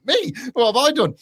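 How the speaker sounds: high, squeaky "who, me?"; feigned shock at being picked; mock innocent surprise. Mock innocent reaction quote.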